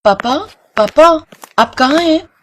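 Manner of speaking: blind daughter calling for father; young girl voice. Acted.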